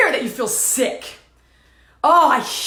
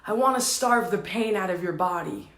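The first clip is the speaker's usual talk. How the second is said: low, soft inner voice; hushed, low admission; soft confession; 8 semitones lower, 7 dB quieter than usual. Retold or imitated. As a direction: voice the wounded part low and quietly. Wound's softened answer, retold.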